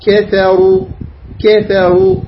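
"كثروا" with a thin K and heavy R; light K. Shown as a demonstration. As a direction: keep the K of "كثروا" light before the thick R. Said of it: "تنتبه على الكاف، لا تفخم الكاف". ("كثروا" بكاف مرققة وراء مفخمة)

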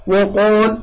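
وقال with dark rounded "wo" start; wrong heavy waw. Shown as a demonstration. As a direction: mimic the over-heavy و in وقال. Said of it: "هكذا يقرأ".

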